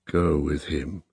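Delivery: barely voiced urging; whisper. A narrator's reading. The dark man urges Irene to go, in a whisper. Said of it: "he said in a whisper".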